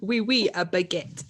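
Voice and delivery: lightly put-on French accent. Shown as a demonstration. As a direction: repeat it in a jokey French accent. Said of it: "you can do a French accent".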